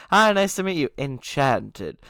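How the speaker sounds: a touch of hammed-up courtliness; mildly mocking stiff greeting; mock formal greeting. Shown as a demonstration. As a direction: play it as a silly over-formal hello. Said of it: "that would sound ridiculous to say".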